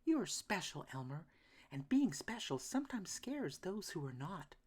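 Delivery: lightly voiced gentle mother; mama voice. A narrator's reading. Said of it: "with a smile".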